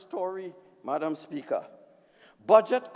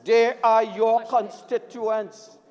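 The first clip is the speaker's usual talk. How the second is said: slow emphatic; 5 dB louder, slower than usual. Real, not acted. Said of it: "I get emotional".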